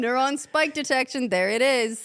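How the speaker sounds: mock brain-implant user. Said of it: "Be like".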